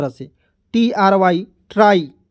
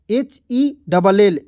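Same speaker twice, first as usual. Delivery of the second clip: slow spelling; much slower than usual. Shown as a demonstration. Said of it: "जैसे यहाँ पे".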